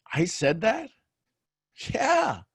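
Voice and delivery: high-pitched disbelieving exchange; acted shock. Retelling being told what they said, acted shock. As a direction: play up the shock, voice leaping high.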